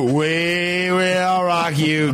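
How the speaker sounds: slow, dopey Valley party-dude drawl; Valley Girl voice. Acted. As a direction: stretch it out like a spacey California party kid. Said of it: "Like that, like".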